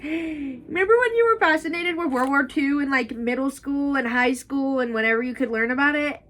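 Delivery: high, loud, gushing self-talk; excited reminiscing. Retold or imitated. Reader to herself about old World War Two obsession, excited. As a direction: gush it like a thrilled history nerd.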